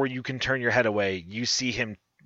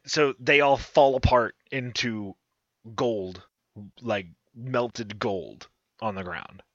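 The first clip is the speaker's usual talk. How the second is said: game master narration. Acted. GM describes gold and chests.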